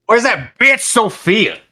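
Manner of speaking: loud, high, drawn-out holler; calling out. Acted. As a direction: holler it across a crowd, stretched out. Player calls out for Sophia in game.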